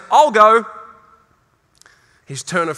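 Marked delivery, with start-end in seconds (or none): 0.1-0.7 eager volunteer. Acted. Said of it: "Isaiah doesn't put his hand up and say".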